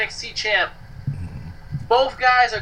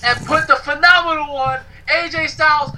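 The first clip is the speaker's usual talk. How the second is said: announcing; 4 semitones higher than usual. Pretend. Announcing his pick with flourish.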